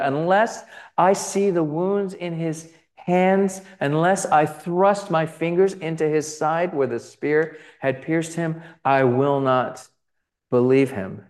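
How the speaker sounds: a hint of stubborn doubt, dragged out at the end; doubting Thomas. Thomas refusing the disciples' news, lightly voiced stubborn doubt.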